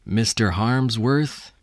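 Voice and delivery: ordinary talk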